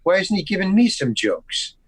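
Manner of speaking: retold mild indignation; a little attitude. Bothered actor thinking about being overlooked, a little attitude. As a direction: grumble it as a bothered actor's thought. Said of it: "like, a little attitude about".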